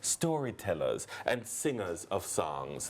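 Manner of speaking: slow, solemn recitation; slow quote reading. Acted. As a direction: read it like an inspiring poem, unhurried. Reads a quote slowly.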